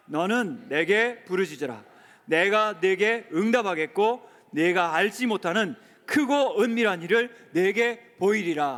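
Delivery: slow, loud solemn recitation; leading the church in reading Jeremiah aloud; scripture reading. Shown as a demonstration. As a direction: proclaim each line slowly. Congregation reads scripture.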